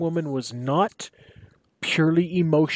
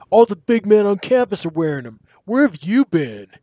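higher, louder scolding; exasperated roommate; 6 semitones higher, 4 dB louder than usual. Acted. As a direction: chide him for being clueless.

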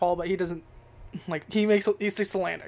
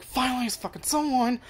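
excited relief; 6 semitones higher than usual. Retold or imitated. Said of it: "he's like".

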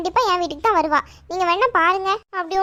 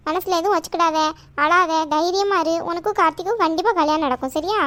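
comforting; 2 semitones lower than usual. Acted. Aunt telling crying girl the wedding will happen, reassuring. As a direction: soothe her and give her courage.

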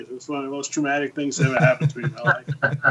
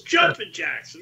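high mock order; 14 semitones higher, slower than usual. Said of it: "He goes".

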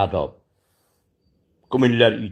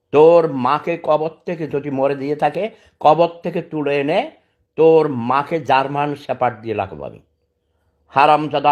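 furious threat; 2 semitones higher than usual. Real, not acted. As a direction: hurl the threat at him, seething. Threatens a YouTuber using his name.

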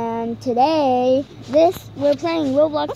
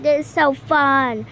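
on a trampoline; 3 dB louder than usual. Real, not acted. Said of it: "I'm bouncing on the little trampoline".

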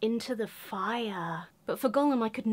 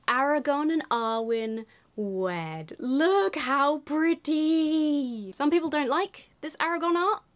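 gushing; 5 semitones higher, slower than usual. Real, not acted. Gushing over card art.

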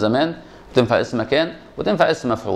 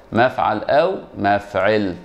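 slow spelled-out patterns; 3 semitones lower, much slower than usual. Shown as a demonstration. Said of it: "على وزن ايه يا شباب".

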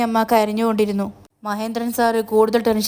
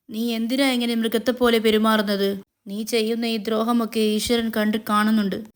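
understated sad reproach; mildly pained accusation; sorrowful. Acted. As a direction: plead with a touch of grief. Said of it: "സങ്കടത്തോടെ പറഞ്ഞു".

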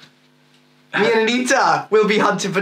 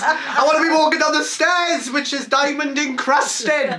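campy drag queen; 3 semitones higher than usual. Pretend. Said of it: "can we talk, like, drag queen stuff now?".

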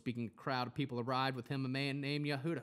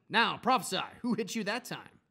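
mocking taunt; 8 semitones higher, 7 dB louder than usual. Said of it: "made fun of him".

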